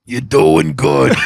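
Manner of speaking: slow, called-out imitation of a friend; Brian Half. Friend approves the house purchase, slow impression. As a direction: draw it out in the buddy's put-on voice. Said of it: "he talks like this".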